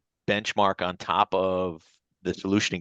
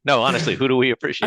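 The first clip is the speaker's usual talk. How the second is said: high, loud pep-squad chant; cheerleader; 7 semitones higher, 5 dB louder, faster than usual. Real, not acted. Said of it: "I, I sound like a cheerleader".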